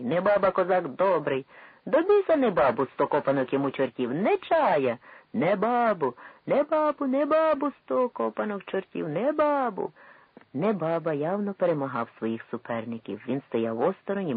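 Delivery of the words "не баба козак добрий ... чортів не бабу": loud, high Cossack crowd yelling; crowd shouting. A narrator's reading. Cossack crowd bellows for their candidate, loud and high. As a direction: bellow the candidate's name over the rival crowd.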